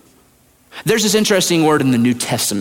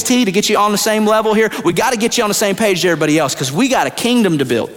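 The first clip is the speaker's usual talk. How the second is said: higher, casual coaxing buddy voice, quick in the middle; Jesus coaxing Thomas; 5 semitones higher than usual. Acted. Jesus urging Thomas to touch his scars, higher and coaxing. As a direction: nudge your doubting friend to reach out.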